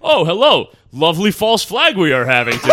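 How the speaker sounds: high, loud, laughing prissy voice; man doing a woman's voice. Retold or imitated. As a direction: camp it up with a laugh. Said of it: "impression of Jules's girlfriend's family".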